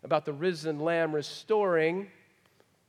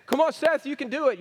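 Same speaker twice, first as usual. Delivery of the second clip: higher, louder mock cheering; mock cheerleader; 8 semitones higher, 5 dB louder, faster than usual. Imagined friend cheers Seth on under the weight, mock cheer. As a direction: hype him up like a cheerleader.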